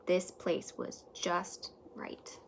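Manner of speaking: slow, hushed and content; slow contented whisper. A narrator's reading. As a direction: breathe it out like a contented secret. Settled in cozy tent.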